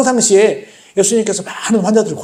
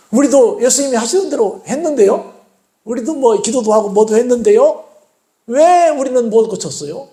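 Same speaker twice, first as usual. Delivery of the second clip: pleading; 3 semitones higher than usual. Acted. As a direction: appeal to the teacher like embarrassed disciples. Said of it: "간청을 합니다". (간청하듯 묻는 말투)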